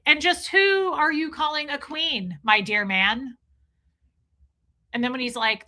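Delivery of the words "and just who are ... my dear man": offended queeny retort. Retold or imitated. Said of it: "And he's like".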